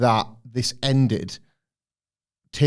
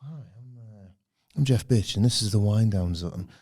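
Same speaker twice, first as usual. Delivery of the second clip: late night DJ; 3 semitones lower than usual. Retold or imitated. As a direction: lull them like a night DJ. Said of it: "there's, uh".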